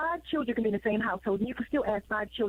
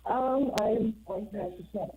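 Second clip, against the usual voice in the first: on speakerphone; 2 semitones lower than usual. Real, not acted. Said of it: "sound like you're on speakerphone".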